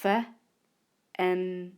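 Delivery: letters F, N, T called out; name each letter of the chunk; spelling aloud. Shown as a demonstration. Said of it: "the third syllable".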